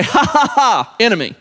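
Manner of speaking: a short mocking ha-ha aimed at the enemy; laughing at the enemy. Preacher taunting the enemy during a trial, mocking laugh. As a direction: laugh it off in the devil's face, defiant. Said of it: "laugh in the enemy's face".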